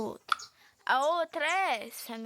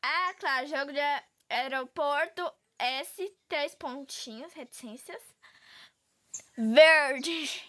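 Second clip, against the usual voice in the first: sarcastic quoting of a follower, ending on a loud "Verde"; mock follower comment; 4 dB louder, slower than usual. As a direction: read the comment out like a smug know-it-all. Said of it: "e fala assim". (comentário zombeteiro de seguidor)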